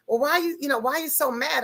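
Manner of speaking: high, quick mock of the other driver asking why she's mad; puzzled other driver. The other driver on the phone asks her why she's so mad, in a high, quick mock voice. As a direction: squeak out the other driver's baffled question.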